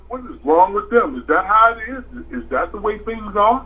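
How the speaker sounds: put-on wondering child. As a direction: voice a toddler's baffled questions. Voicing the watching grandson's questions.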